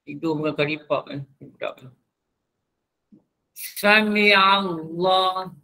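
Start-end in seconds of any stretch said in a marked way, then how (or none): 3.5-5.5 Sami Allah drawn out slowly, ain dropped; slow Sami Allah, the wrong way; common mistake. Shown as a demonstration. Ustaz showing class the common error, slow. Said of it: "Ni yang banyak orang salah".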